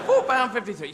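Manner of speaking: high parrot repeat. Acted. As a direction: chirp it insistently like a parrot. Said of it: "a bird on your shoulder going".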